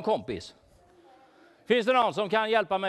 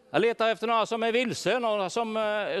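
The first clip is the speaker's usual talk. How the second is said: ordinary talk, nothing marked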